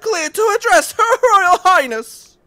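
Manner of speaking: stern guard shout. Acted. Guard character shouting warning.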